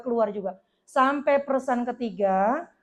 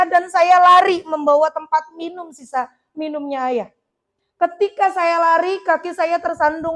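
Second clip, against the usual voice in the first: urgent rush; 3 semitones higher, 6 dB louder than usual. Acted. Daughter relives running after father.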